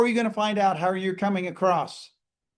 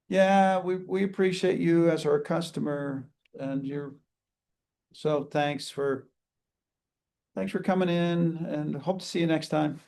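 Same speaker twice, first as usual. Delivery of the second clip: indifferent thanks. Shown as a demonstration. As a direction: say it like you couldn't care less. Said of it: "our body language".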